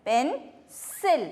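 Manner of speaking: slow, careful പെൻസിൽ with a clear s; teacher draws out പെൻസിൽ for the class; drawn-out demo. Shown as a demonstration. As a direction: stretch പെൻസിൽ slowly, leaning on the s. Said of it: "എസിൻ്റെ സൗണ്ടാണ് വരിക".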